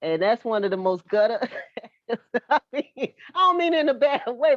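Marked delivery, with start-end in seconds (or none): 2.1-4.6 higher, amused backpedal with laughter; laughing clarification. Real, not acted. Softening a remark about a friend's neighborhood, laughing. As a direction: talk through a real laugh.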